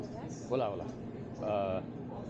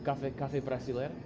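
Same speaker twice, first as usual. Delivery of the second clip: English accent Portuguese. Real, not acted. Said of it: "Ó, ó lá, que engraçado".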